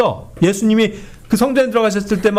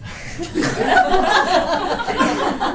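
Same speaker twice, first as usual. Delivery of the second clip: real laugh; 10 semitones higher, 3 dB quieter than usual. Real, not acted. Preacher laughs at own joke.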